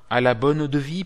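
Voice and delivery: loud street vendor's call; french market cry. Retold or imitated. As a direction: call it out like a hawker. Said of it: "le marchand d'eau-de-vie".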